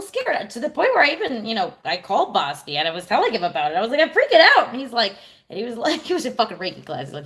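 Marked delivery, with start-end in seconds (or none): 4.0-4.7 higher, louder, panicky rush; frantic. Retold or imitated. Calling Bosky to tell him, louder panicky outburst. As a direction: sound like you're losing it.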